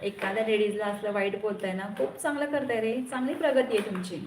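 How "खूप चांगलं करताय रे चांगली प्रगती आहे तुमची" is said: sarcastic praise. Real, not acted. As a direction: praise them with heavy sarcasm. Sarcastic praise of rude commenters. (उपरोधिक स्तुती)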